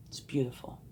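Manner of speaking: hushed, almost a secret; soft whisper. Real, not acted. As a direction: breathe it out as a whisper. Describing what lies ahead.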